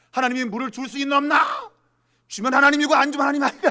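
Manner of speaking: high, loud challenge, speeding up; testing God. Retold or imitated. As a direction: imitate doubters throwing down a dare. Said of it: "하나님을 시험한 것이죠". (하나님을 시험하며 따지는 외침)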